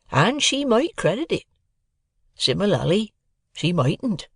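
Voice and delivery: kindly blacksmith weighing his words; Joe the blacksmith. A narrator's reading. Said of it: "narrator voices Joe".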